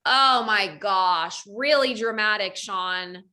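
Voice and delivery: sarcastic. Retold or imitated. Mocking husband's complaint.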